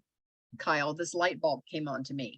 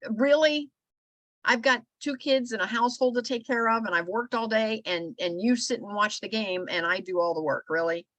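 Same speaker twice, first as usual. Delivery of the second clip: exasperated quote; 3 semitones higher than usual. Retold or imitated. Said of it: "And she's like".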